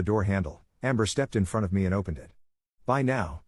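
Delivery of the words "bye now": bright, sugary send-off with a higher lilt; fake-polite goodbye. Amber shooing the sister out, fake-sweet goodbye. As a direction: sweetly dismiss her, not meaning it. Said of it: "she said with a fake smile".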